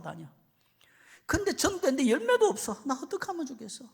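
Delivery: hammed-up high-pitched pleading; mock lament. Missionary unloads his troubles on an elephant, comic escalating lament. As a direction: pour out troubles, climbing to a loud, high wail.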